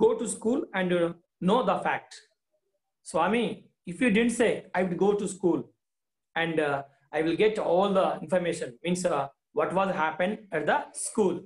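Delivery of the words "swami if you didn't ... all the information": commanding voice. Acted. Teacher voicing the father ordering Swami to speak, commanding. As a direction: lay down the terms, brisk at the end. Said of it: "in a commanding voice".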